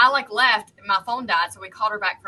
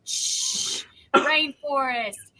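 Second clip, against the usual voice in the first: unvoiced shh, then a slow drawn-out rainforest; mock noise machine; 3 semitones higher, much slower than usual. Soothing a friend to sleep, mock noise machine hush. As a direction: play a sleep sound machine, lightly. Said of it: "acting like I was a noise machine".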